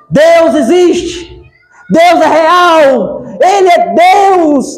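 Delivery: lento e um pouco mais alto, proclamando; proclamando em alto e bom som. Retold or imitated. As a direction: anuncie cada frase devagar, com firmeza. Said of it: "em alto e bom voz, som". (mulher proclamando devagar e alto que Deus existe)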